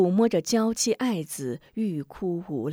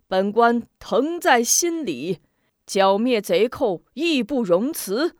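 official's speech; 4 dB louder than usual. Acted. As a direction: make a stately promise to the crowd. Magistrate addresses villagers. (官腔十足地安抚)

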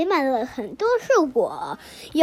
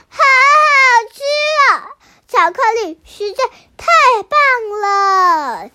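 excited yum; 6 semitones higher, 4 dB louder than usual. Acted. Chicks taste chocolate.

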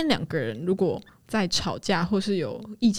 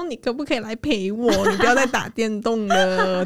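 cutesy pleading; 3 semitones higher than usual. Retold or imitated. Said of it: "就说".

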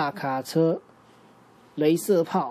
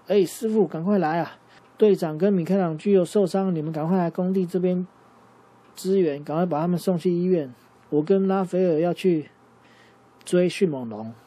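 焦急呼救; 4 semitones higher, 4 dB louder than usual. Acted. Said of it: "跟老鼠师傅说".

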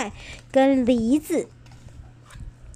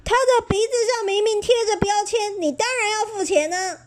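stern glare; 10 semitones higher than usual. Acted. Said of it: "收银员瞪着眼睛说".

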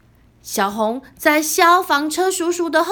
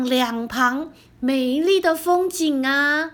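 smiling gently. Acted. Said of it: "小红笑眯眯地跟小黑分享".

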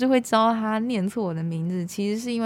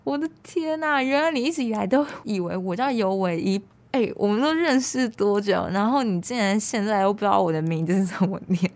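sudden realization. Retold or imitated. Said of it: "这时候我才恍然大悟说".

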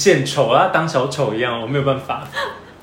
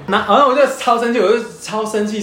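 worked up; 5 semitones higher than usual. Real, not acted.

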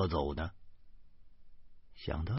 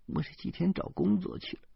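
choked up; 9 semitones higher, 5 dB quieter than usual. A narrator's reading. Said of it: "她哽咽着说".

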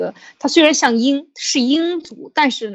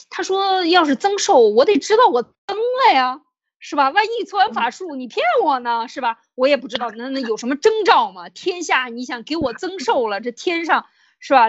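a lightly voiced fretful king, pitched higher; anxious king; 5 semitones higher than usual. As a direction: press the questions like a worried ruler, higher up. Retold king's anxious questions. (略带表演的焦急国君，声音偏高)

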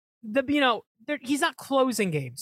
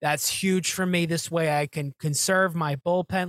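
mock Boone; 4 semitones lower than usual. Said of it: "Boone's on his knees about".

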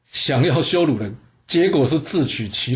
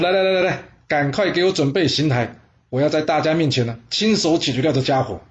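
楚灵王得意; 2 semitones higher than usual. Acted. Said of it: "开心啊".

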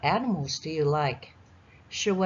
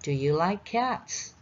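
slow teaching read; slower than usual. Shown as a demonstration. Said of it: "所以我们一起念一次".

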